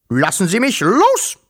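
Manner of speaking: high, forceful yell; roared command. A narrator's reading. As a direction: demand to be let go. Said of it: "brüllte er". (mit hoher Stimme brüllen)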